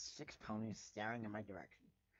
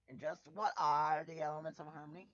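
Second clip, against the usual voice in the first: loud brash interruption; 3 semitones higher, 6 dB louder than usual. Acted. Rainbow Dash bursts in.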